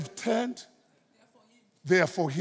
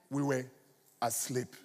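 fading to a hush; 6 semitones lower, 6 dB quieter than usual. Retold or imitated. Preacher quoting the soldiers' alibi, fading to a hush. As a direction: drop to a soft, low hush.

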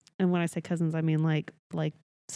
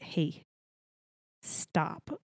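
quieter, clipped-off self-scolding; self-reproach; 6 dB quieter than usual. Acted. Speaker checks own returning Texas accent, quiet self-reproach. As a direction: softly tell yourself to stop. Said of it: "takes me a week afterwards to be like".

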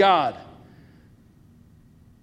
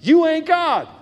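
higher, folksy Southern accent; Southern drawl; 6 semitones higher, slower than usual. Shown as a demonstration. Preacher translating for his congregation, Southern accent. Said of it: "Let me translate that into Southern".

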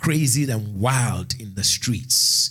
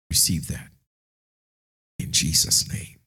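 hushed, breathy whisper; whispered prayer; 6 semitones lower than usual. Acted.

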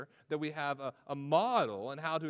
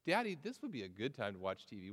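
put-on shy little girl; 5 semitones lower, 5 dB quieter, faster than usual. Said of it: "very shyly and timidly".

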